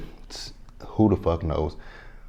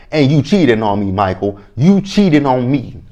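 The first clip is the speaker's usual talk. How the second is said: raised accusing voice; 5 semitones higher, 4 dB louder than usual. Retold or imitated. Voicing Sarah accusing Michael.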